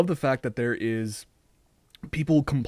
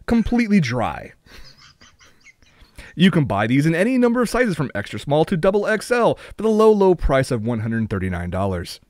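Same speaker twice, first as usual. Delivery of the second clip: upbeat announcer selling the Matic Dry Sock, louder on the brand; cheesy commercial voice-over ending on the price; infomercial read; 2 semitones higher, 3 dB louder than usual. Acted. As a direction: pitch it like a late-night ad. Reading fake product ad.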